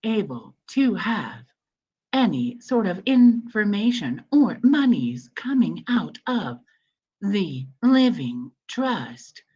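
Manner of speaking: like a recorded elevator announcement. Shown as a demonstration. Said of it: "I'll put on my elevator voice".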